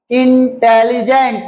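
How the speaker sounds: इंटेलिजेंट parted as "in", "teli", "jent"; three-part breakdown. Shown as a demonstration. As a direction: say इंटेलिजेंट in three distinct chunks. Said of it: "तीन बार में". (इंटेलिजेंट को तीन हिस्सों में तोड़कर बोलना)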